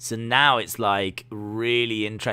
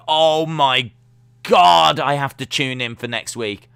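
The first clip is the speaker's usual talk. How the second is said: higher and louder, breathless delight; hooked fan; 4 semitones higher, 8 dB louder than usual. Retold or imitated. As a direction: gasp it like you can't wait. Imitating hooked wrestling fan.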